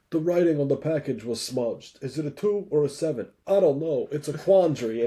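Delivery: a hint of the famous actor's odd, deadpan puzzlement; Christopher Walken impression. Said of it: "Do Christopher Walken".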